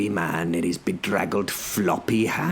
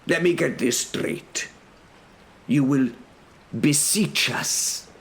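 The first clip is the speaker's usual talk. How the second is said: higher, careful mock-puzzled check; feigned mishearing; 9 semitones higher than usual. A narrator's reading. Defender rechecks the herald's threat, mock-puzzled. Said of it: "lifted my hand to my ear".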